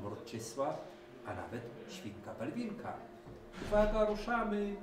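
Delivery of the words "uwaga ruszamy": much higher, louder announcing call. A narrator's reading. Reksio announcing the start, loud call. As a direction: shout that we're off. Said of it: "zawołał Reksio".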